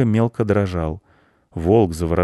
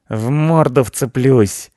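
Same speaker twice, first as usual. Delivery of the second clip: high, loud, drawn-out cat threat; cat ready to attack; threatening cat; 5 semitones higher, 6 dB louder, slower than usual. A narrator's reading. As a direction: yowl the threat slowly.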